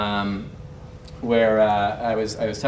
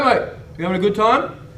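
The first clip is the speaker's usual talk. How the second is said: higher, louder mock-British greeting; British guy; 10 semitones higher, 5 dB louder than usual. British guy greeting a stranger on the dance floor, mock-British. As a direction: imitate a British bloke, loud and high. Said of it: "He was a British guy".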